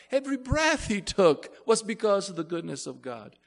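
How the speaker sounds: forceful, fervent pulpit delivery; impassioned preaching. Real, not acted. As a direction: drive each point home to the congregation.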